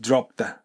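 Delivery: "dropped" with its D swallowed into the. Shown as a demonstration. Teacher shows D swallowed by the. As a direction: let the D vanish into "the". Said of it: "Dがtheに飲まれる形で".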